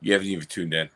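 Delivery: tipsy slurred speech. Real, not acted. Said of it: "I'm getting drunk".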